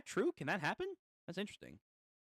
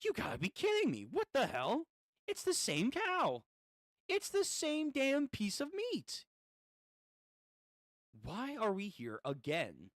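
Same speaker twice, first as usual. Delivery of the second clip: riders in a panicked loop; exasperated riders gasp at the same meat again; freaking out. Acted. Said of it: "they're freaking out".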